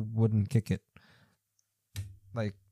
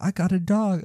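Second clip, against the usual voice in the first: excited parent; 9 semitones higher, 5 dB louder than usual. Retold or imitated. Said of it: "and you're like".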